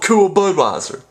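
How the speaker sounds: high, cool Budweiser pitchman voice; high-pitched beer commercial announcer. Pretend. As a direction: sell the beer like a slick ad. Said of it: "That's such a great voice".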